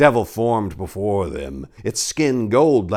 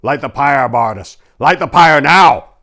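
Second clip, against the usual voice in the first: loud commanding shout, higher; 5 semitones higher, 11 dB louder than usual. Acted. Paladin ordering the knight, shouting commands. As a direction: bark the order to light it. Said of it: "and he shouted".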